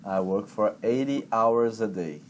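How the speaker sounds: slow, careful full sentence; teacher slowly correcting the student's sentence; slow model sentence. Shown as a demonstration. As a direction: lay out each word slowly. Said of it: "corrected full sentence".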